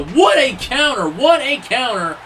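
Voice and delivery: laughs through the call of the counter; laughing. Real, not acted. Commentator calling a surprise counter, laughing. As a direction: let a laugh break into the call.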